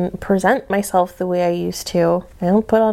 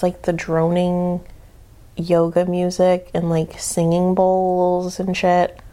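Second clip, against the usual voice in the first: usual speaking voice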